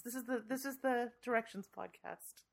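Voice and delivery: hushed radio host voice; soothing velvety voice. Shown as a demonstration. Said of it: "this is my soothing, velvety voice".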